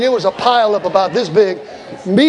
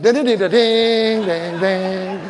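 western showdown tune; much slower than usual. Retold or imitated. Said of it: "it felt like Clint Eastwood".

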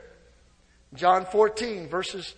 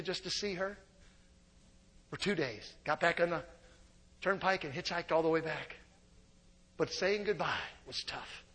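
soft, low remembering; preacher softly recalling goodbyes to his sweetheart; quiet; 6 semitones lower, 10 dB quieter than usual. Retold or imitated. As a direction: tell it softly, looking back. Tender memory of leaving his girlfriend.

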